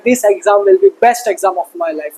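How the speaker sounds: slow, deliberate self-affirmation, every word spaced. Shown as a demonstration. Teacher tells students to repeat this slowly. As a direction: say it slowly like a vow to yourself. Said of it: "खुद के ऊपर भरोसा रखना है और बोलना है".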